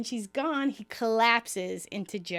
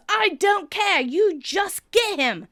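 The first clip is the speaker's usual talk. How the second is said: put-on louder, higher, urging shout in a British accent; mock shout; 8 semitones higher, 6 dB louder, slower than usual. Emily urging Ross back into the game, a louder, higher mock shout. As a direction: bark the order like a fierce coach. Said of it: "Emily shouts".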